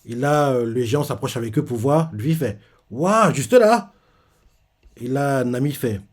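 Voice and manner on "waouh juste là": slow, high-pitched gasp of wonder; amazed wow. Retold or imitated. Giant marvels at the mark.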